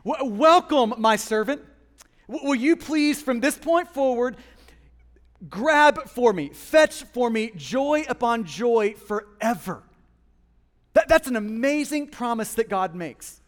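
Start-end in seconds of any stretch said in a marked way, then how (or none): 0.0-1.6 a bit sassy. Shown as a demonstration. Believer greeting suffering as a servant, sassy. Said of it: "in a little bit of a sassy tone". 2.3-9.8 lightly sassy orders to a servant; drawn-out commands with a touch of sass; a bit sassy. Shown as a demonstration. Believer sending suffering to fetch joy, mildly sassy. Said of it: "a little bit of a sassy tone".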